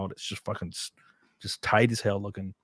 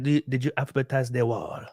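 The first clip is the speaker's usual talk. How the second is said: mock Hispanic accent. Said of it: "with a Hispanic accent at each other".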